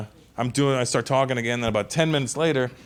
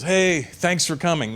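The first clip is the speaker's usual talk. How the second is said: casual prince; 4 semitones higher, slower than usual. Retold or imitated. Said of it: "He doesn't sound like how you're thinking".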